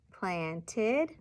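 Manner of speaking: "Planted" slowly split into plant and ed; syllable-by-syllable "Planted"; parts separated. Shown as a demonstration. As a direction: say "Planted" in two parts, left hanging. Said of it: "substituting parts of a word".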